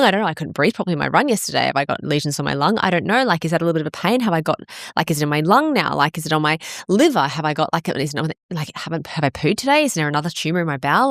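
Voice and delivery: rattled-off run of worried questions; racing anxious thoughts. Retold or imitated. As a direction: spill worries out without a break. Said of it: "my brain would have been going".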